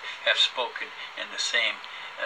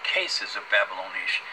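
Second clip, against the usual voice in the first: preachy voice; 4 dB louder than usual. Acted. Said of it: "He's off on his preachy voice again".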